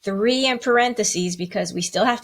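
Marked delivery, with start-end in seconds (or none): 0.0-0.5 slow, even count; teacher slowly counting one dash two; counting the beats. Shown as a demonstration. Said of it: "to count it".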